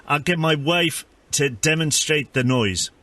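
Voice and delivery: lightly put-on South African accent, deadpan; mock South African accent. Prank caller playing neighbourhood watch, mock South African accent. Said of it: "It was South African".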